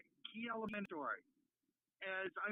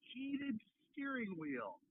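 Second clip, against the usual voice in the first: slow, unimpressed drawl on heated steering wheel; mock disbelief, slowed right down; skeptical; slower than usual. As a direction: drag it out like it's silly. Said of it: "And I looked at him like".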